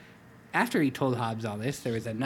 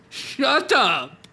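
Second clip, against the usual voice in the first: laughing; 9 semitones higher, 8 dB louder than usual. Acted. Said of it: "his smile bigger than ever".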